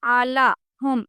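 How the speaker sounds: آلاہم drawn out slowly with a throaty عین; correct ain sound. Shown as a demonstration. Teacher showing the correct عین in آلاہم. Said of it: "عین کی آواز نکالنے سے".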